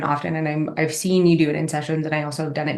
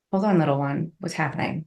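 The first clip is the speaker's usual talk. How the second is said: soft, gentle reassurance; calm a scared little one; soothing inner child; 3 dB quieter than usual. Retold or imitated. Coach soothing her frightened inner child, softly.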